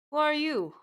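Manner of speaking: sharp demand. Acted. Officer confronts impostor.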